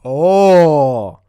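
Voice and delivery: sudden loud oh; loud surprised oh. Real, not acted. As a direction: blurt out a surprised oh.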